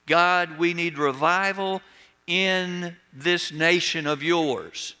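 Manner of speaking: earnest, acted plea to God; emphatic prayer with a slowing finish; pleading. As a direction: plead it, drawing out the last words. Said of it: "he pleaded".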